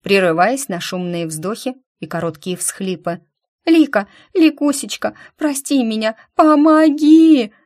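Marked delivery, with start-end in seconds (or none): 3.7-7.5 wailing sob. A narrator's reading. Injured girl begs Lika forgiveness, loud wailing sob. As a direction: break into open sobbing. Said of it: "В голос заревела Диана".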